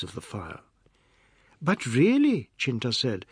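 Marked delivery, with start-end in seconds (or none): 1.6-2.5 high, bright protest; eager mock outrage; cheerful aunt; happy scolding. A narrator's reading. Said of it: "as she happily got ready".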